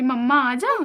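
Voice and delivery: mock whiny call for mama; imitating baby calling. Grandmother mimicking the baby calling for mama. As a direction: play the baby calling for mummy. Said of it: "बोलती हो".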